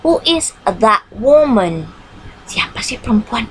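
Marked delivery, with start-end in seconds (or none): 0.1-1.9 slow model sentence. Shown as a demonstration. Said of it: "For the example".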